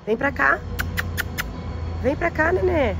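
high, sweet pet talk; high coaxing voice. Real, not acted. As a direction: coax the scared puppy gently. Coaxing a hurt dog.

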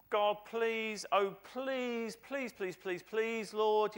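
high, insistent pleading; hammed-up begging, "please" piled on "please"; mock begging. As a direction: plead desperately, as a parody. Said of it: "don't beg".

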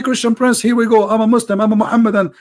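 boastful Muslim challenger. Pretend. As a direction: play the cocky caller daring him on air.

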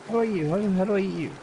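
high playful voice. Pretend. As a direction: lift it up playfully. Repeats it higher, playful.

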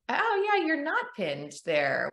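gentle validating parent. Retold or imitated. Parent gently asking daughter about her feelings, mild warmth. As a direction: coax the child to open up, mildly. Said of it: "instead of saying".

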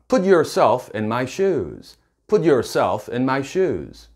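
slow, deliberate English; slow model sentence. Shown as a demonstration. Teacher modelling the girlfriend's line slowly. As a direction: spell it out for the learners. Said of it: "이렇게 얘기를 한다고 상상을".

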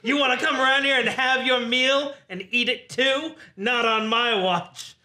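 cocky mock wrestling boast; rookie wrestler promo. Rookie waiter challenges the veteran, cocky wrestler promo. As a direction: state each boast as a challenge.

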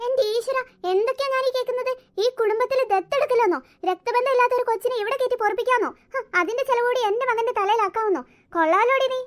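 high, loud indignant questions; outraged. Acted. Mother-in-law aghast at son adopting a child, outraged. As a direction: scold them in rising disbelief.

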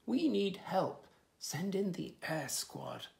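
radio for help urgently; urgent call. Acted. Urgent call on walkie-talkie.

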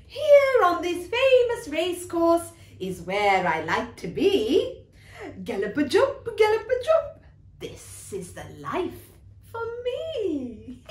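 lightly voiced horse loving the gallop; a touch of galloping glee; delighted racehorse. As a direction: revel in the life, pitch swooping up and down. Horse delighted with racing life.

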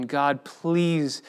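begging prayer. Retold or imitated. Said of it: "you're just begging".

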